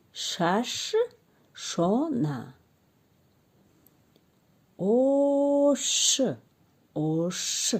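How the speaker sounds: slow phonics drill; syllable-by-syllable reading. Shown as a demonstration. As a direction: draw out each sound for children to repeat. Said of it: "Акнун ҷумларо мехонем".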